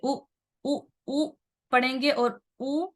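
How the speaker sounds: "उ" as a brief one-count vowel; short u. Shown as a demonstration. Teacher showing learners the wrong reading, a short u. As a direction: cut each "उ" short, without stretching. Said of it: "इसको उ नहीं पढ़ेंगे".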